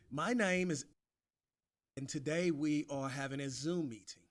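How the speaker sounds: a weak try at a British accent; attempted British accent. Shown as a demonstration. The speaker tries repeating the sentence in a bad British accent. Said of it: "That is rubbish, Jeff".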